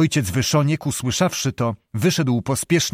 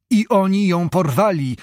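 higher-pitched, sudden exclamation; sudden outcry; 6 semitones higher, 3 dB louder than usual. A narrator's reading. Zbyszko realising who took Danusia, sudden higher outcry. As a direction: burst out with it, a moderate cry. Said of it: "zawołał nagle Zbyszko".

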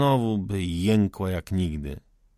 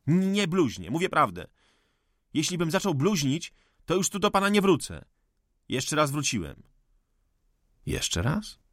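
raised high, passionate accusation; heated outburst; 7 semitones higher than usual. Acted. Cezary rails at the old forester, high and furious. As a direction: hurl it at him like an indictment. Young man's furious tirade.

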